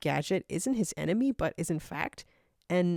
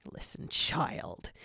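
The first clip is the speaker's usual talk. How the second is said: cold dismissal; 4 semitones lower, 6 dB quieter, slower than usual. Acted. Zero dismisses Tikal coldly.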